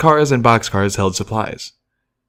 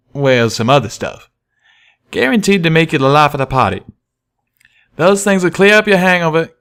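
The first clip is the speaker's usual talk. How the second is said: raised, friendly cowpony twang; Calamity's voice; 5 semitones higher than usual. Acted. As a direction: speak as the eager young pegasus. Calamity pitches the mints.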